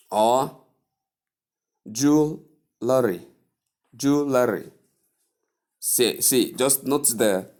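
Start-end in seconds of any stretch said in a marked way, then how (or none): 1.9-4.6 "jewelry" as JOO-luh-ree; wrong pronunciation. Shown as a demonstration. Teacher shows another misuse, wrong JOO-luh-ree pronunciation. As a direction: put an extra vowel after the L in "jewelry": JOO-luh-ree. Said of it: "Some people pronounce it as".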